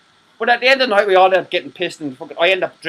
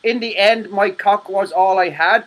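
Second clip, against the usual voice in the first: mock quote; slower than usual. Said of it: "That's what Mandela Miles said".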